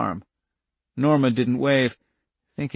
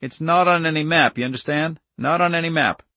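lightly voiced farmer, pitched higher; a touch higher, firm instructions; Irv in earnest; 5 semitones higher than usual. Irv giving fugitives directions, lightly voiced in earnest.

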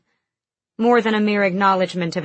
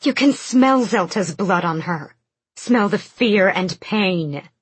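hissing; 4 dB louder than usual. Acted. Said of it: "Iskra hissed".

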